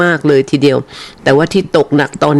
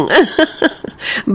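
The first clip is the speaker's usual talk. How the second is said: high breathy giggle; a quick airy giggle at her own question; 11 semitones higher, 3 dB quieter than usual. Real, not acted. Host giggles to listeners about the rain, airy giggle. Asks who got no rain.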